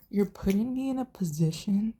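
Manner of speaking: a wife whispering her complaint to her husband; hushed retold quote. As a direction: whisper the wife's line, slowing at the end. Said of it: "and when Carmela goes".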